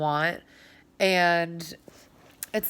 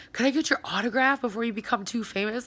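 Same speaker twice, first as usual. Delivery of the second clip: teasing coworker; 4 semitones higher, much faster than usual. Retold or imitated. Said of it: "They're like".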